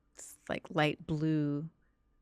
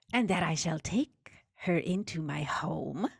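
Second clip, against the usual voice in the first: creature dictating. Acted.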